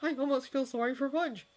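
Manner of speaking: high-pitched, marvelling sympathy; amazed, voice held high; wide-eyed. A narrator's reading. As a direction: marvel at someone's bad luck. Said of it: "said Arthur wide-eyed".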